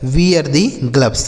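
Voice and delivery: slow, careful English question; slow model reading. Shown as a demonstration. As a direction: read it out slowly for learners. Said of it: "slow model phrase again".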